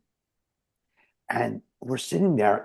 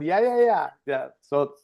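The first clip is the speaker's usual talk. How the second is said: usual speaking voice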